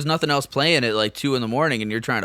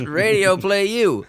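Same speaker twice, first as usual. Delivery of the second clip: slow, drawn-out, higher joke delivery; mock comedian punchline; 7 semitones higher, 3 dB louder, much slower than usual. Co-host riffing on a Yakov Smirnoff joke, hammed-up punchline.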